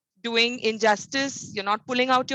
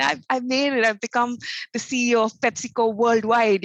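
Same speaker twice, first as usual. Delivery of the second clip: retold joyful news. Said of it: "she was just exploding with joy".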